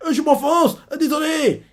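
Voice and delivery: put-on high, laughing old man's apology; old Vegapunk sinking. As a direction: giggle out a sheepish sorry, pitched high. (vieux savant qui s'excuse en riant, voix aiguë)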